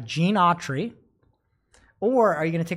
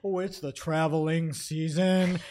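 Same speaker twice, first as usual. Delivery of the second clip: dopey voice. Retold or imitated. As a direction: play it dim and dopey. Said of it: "talking in that dopey voice".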